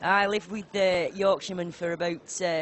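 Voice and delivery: Yorkshire accent with some amusement; Sheffield Yorkshire accent. Shown as a demonstration. Commentator proving her Yorkshire credentials, Sheffield accent. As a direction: keep chatting in a Sheffield accent. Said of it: "more a Sheffield accent".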